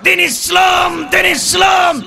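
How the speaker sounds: high, drawn-out rallying shout; shouted slogan. Real, not acted. Preacher leading the crowd in slogans, shouting. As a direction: call it out long and high to rouse the crowd.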